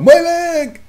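high squeal of pain; squeaky cartoon cry; Buddy from SpongeBob. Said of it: "It sound like Buddy off SpongeBob".

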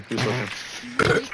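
slow, stretched Who's slurping with a rising end; mock-slow, exaggerated repeat; drawn-out repeat. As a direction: drag out every word of Who's slurping.

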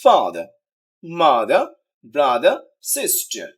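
ফাদার, মাদার, ব্রাদার loud and low on the first beat; first-syllable stress. Shown as a demonstration. Teacher showing the noun rule, emphatic. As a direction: punch the opening of ফাদার, মাদার, ব্রাদার, সিস্টার. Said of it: "প্রথম সিলেবলটা stress দিতে হবে".

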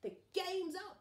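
high, loud heroic yell; triumphant yell. Acted. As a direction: yell the capture. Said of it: "yelled Sue Potato".

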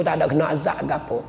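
normal talking voice

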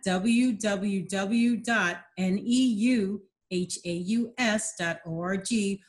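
spelled out slowly. Shown as a demonstration. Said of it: "spells out the website address".

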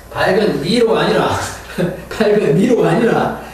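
laughing through the correction; real amused laugh. Real, not acted. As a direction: chuckle at the misprint. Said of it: "laughing at the slip".

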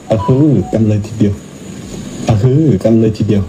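lightly mimicked catchphrase with a rising-falling first word; playful imitation of someone's pet phrase; imitating เบียร์. Monk mimicking a catchphrase that makes him laugh, light imitation. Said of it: "ที่เบียร์เขาพูด".

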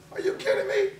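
high squeak of laughing disbelief. Real, not acted. To the viewers about France's tax, laughing in disbelief. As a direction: laugh it out, can't believe it.

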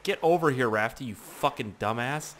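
lightly tough New Yorker scolding; mock New Yorker telling-off; New Yorker accent. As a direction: scold with a hint of New York. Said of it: "like, New Yorker on my ass".

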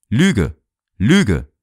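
yelled out in a feverish rage; delirious yelling. A narrator's reading. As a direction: bellow it like a dying man raving. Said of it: "brüllte immer wieder los".

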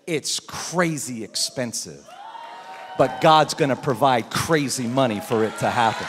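slow then loud proclamation; prophetic declaration. Retold or imitated. Pastor voicing the prophet, slow then loud. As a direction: build to a loud promise. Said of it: "She said".

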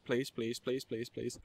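pleading, fading to almost nothing; fading frightened plea. Real, not acted. Begging while fleeing in fear.

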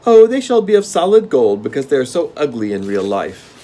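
gnome king. Acted. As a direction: relish the game like a spoiled monarch.

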